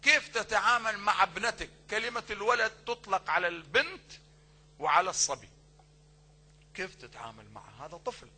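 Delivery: ordinary delivery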